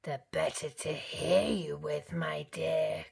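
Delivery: a touch of a croak; wolf playing innocent; lightly croaking wolf. A narrator's reading. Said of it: "croaked the wolf".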